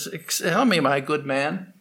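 a learned man showing off to a servant, condescending; condescending pundit. Acted. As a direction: talk down to a lowly boatman. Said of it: "He looked down his nose at the ferryman".

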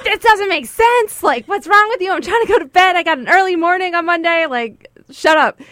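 high, loud exasperated rant; retold anger. Woman trying to sleep scolds boyfriend, acted-out angry rant. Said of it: "I got so mad at him".

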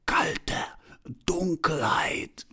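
high, drawn-out, half-choked call; choked-out laughing cry. A narrator's reading. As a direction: gasp it out slowly, high, as if choking on laughter. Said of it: "brachte schließlich hervor ... rief sie und lachte".

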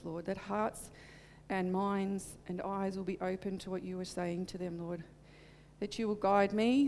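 reverent pastor's prayer, softening toward amen; spoken prayer. Acted. Leads the congregation in prayer.

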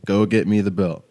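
retold stern parent's order, straight. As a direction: say it level and dead serious, like a parent. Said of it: "the straight voice".

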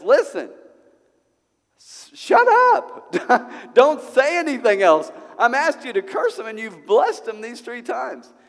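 a raging king cutting the prophet off; angry king. Acted. King of Moab yells at Balaam to stop blessing, furious shout.

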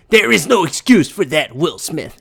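lightly voiced pundit verdict, dropping on the name; a hint of dramatic sports-commentator scolding; Stephen A. Smith. Pundit tells Will Smith there's no excuse, mildly dramatic. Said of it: "dramatic reading that I had to do of Stephen A's Twitter".

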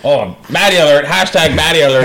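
leering, creepy catcall; sleazy pickup line. Retold or imitated. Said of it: "You just sound like a creep".

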